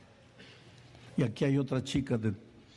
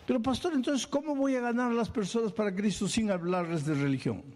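higher, puzzled question; imagined church member asking; 7 semitones higher than usual. Pretend. Preacher voicing a listener asking the pastor. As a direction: ask the pastor like a doubting member.

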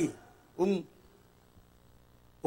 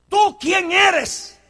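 slow searching question; 10 semitones higher, 6 dB louder, much slower than usual. Acted. Preacher repeats key question.

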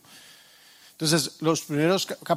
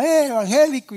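retold catcall, pitched up; imitated street jeer; 7 semitones higher, faster than usual. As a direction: mildly call out like a heckler in the street. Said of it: "eso le gritaba".

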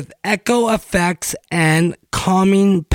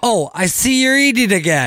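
passive-aggressive; 4 semitones higher, faster than usual. Pretend. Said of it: "passive-aggressive commentary".

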